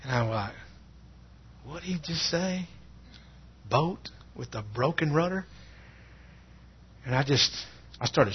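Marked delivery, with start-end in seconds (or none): 1.7-5.4 hushed, higher-pitched incredulous question; acting out quiet bewilderment; stunned disbelief. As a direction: ask softly, as if unsure you heard right. Reacting stunned to the eerie remark.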